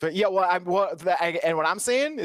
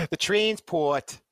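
put-on New Zealand accent; 4 semitones higher, much slower than usual. Amused by the article's wording, slow New Zealand accent. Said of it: "my New Zealand is just my Australian".

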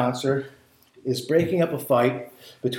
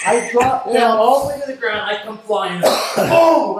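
higher and louder, yelling the uppercut; excited climax; 6 semitones higher, 5 dB louder than usual. Retold or imitated. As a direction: build up to a shouted "Boom!". Acting out the final uppercut.

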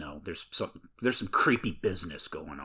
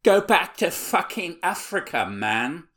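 put-on jeering kid; 10 semitones higher, 6 dB louder than usual. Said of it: "one of them says".

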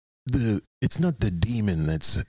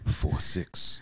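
whisper; 5 semitones lower than usual. Acted. Whispered repeat of height.

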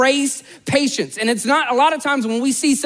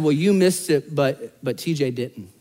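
God's gentle rebuke; 9 semitones lower, 4 dB quieter than usual. Retold or imitated. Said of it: "and he said".

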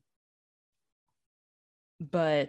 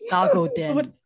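excited; 10 semitones higher, 5 dB louder than usual. Shown as a demonstration.

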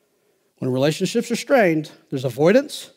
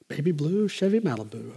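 savoring the words; 3 dB quieter than usual. Shown as a demonstration. Preacher repeats a car name for fun, savoring it. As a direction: relish saying "Baby blue Chevy Malibu". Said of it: "That's just fun to say. Let's say".

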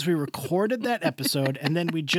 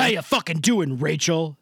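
flat, hard "How you fucking doing, Rachel" with falling end; menacing "How you fucking doing, Rachel"; aggressive greeting. Shown as a demonstration.

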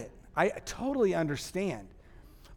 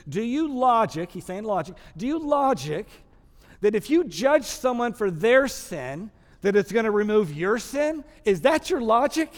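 rising challenge; 3 semitones higher, 4 dB louder than usual. Acted. Preacher voicing Paul's challenge.

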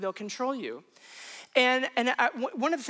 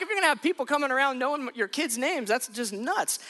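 amused disbelief with a laugh; 4 semitones higher than usual. Real, not acted. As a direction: laugh at how absurd it was. Laughing at his own fear.

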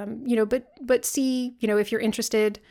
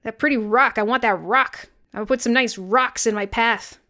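mock admiring; 2 semitones higher, 5 dB louder than usual. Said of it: "No one talks about, like".

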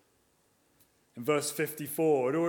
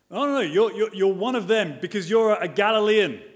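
accusing bystanders; 3 semitones higher, 5 dB louder than usual. Retold or imitated.

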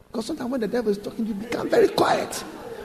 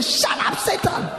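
retold shout; 10 semitones higher, slower than usual. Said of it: "he shouted".

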